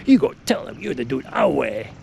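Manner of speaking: a rough put-on Midwestern twang, imitating Truman. Retelling Truman dismissing Molotov, in a mock Midwestern twang. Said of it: "I'm trying to imitate his twang here".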